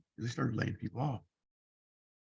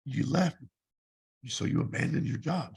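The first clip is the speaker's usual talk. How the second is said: louder accusing tone from the boss; 5 dB louder, slower than usual. Retold or imitated. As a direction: pin the blame on him.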